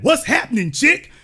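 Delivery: a light jive-talk echo of the clip; imitating the cartoon. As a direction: toss it off like the hep cat. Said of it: "Y'all just saw that".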